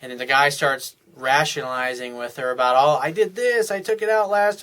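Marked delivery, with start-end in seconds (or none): 2.8-4.6 higher, louder, defensive excuse; defensive protest. Retold or imitated. Husband defending himself against his wife's complaint, indignant. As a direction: protest your innocence, a bit indignant.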